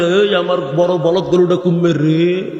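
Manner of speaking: drawn-out, lightly hammed-up wail; mock dying cry. Preacher mimicking a dying man fretting over his ox, mock drawn-out cry. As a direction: stretch the last word like a comic lament.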